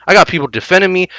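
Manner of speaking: I got people defending me, rattled off fast; second take of I got people defending me, sped up; rushed repeat. Retold or imitated. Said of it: "I watched what T Martin had to say about it".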